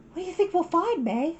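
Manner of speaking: excited big sister; Satsuki calling. Acted. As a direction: call to little sister across the morning. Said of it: "Satsuki called her".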